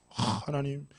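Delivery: re-enacted pleading with God, starting on a sigh; imitated anguished complaint in prayer; mock tearful prayer. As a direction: plead as if praying through tears, lightly hammed-up. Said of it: "얼마나 울면서 기도 많이 했겠어".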